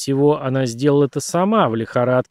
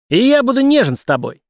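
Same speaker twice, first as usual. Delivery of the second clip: high, loud leering nightmare voice; leering Melvin; 11 semitones higher, 6 dB louder than usual. Acted. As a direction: sneer it high and loud like a creep.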